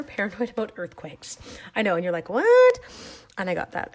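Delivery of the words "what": high, loud mock disbelief; exaggerated, high-pitched shocked question; mock incredulous. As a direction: squawk it like a baffled listener. Voices the viewers' incredulous reaction.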